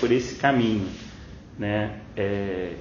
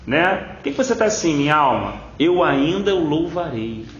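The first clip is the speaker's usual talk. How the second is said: quick, higher self-exhortation; preacher addressing himself in prayer; talking to himself; 4 semitones higher than usual. Retold or imitated. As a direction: urge your own soul out of its slump.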